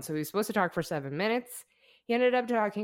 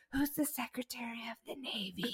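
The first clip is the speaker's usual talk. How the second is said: very quiet, high, very hushed stage whisper; 5 semitones higher, 12 dB quieter than usual. Acting out a speaker who stops while addressing the secretaries one by one, imitating a stage whisper. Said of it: "he has to stop and stage whisper".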